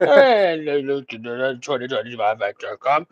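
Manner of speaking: mock radio traffic report; low, joking announcer patter; radio guy. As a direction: parody a radio host rattling off traffic. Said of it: "like the best fucking radio fucking guy ever".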